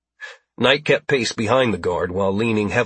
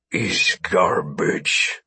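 alien captive's disdain; 4 semitones lower, much slower than usual. Acted. Alien captive's broken English disdain.

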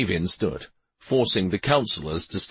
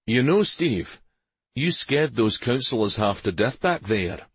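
easy, chatty remark to a friend; conversational; 4 semitones higher than usual. Acted. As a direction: mention it casually, a little higher. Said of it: "Karvik said conversationally".

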